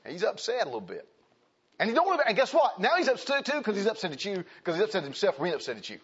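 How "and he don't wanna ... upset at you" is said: building preacher excitement. Acted. Excitedly preaching about husband.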